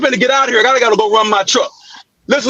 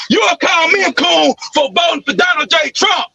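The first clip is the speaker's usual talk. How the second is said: higher yelled protest; angry yelling; 3 semitones higher than usual. Real, not acted. Man yelling back at a rival who called him names. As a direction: yell back at the accusation. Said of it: "all that yelling and name calling".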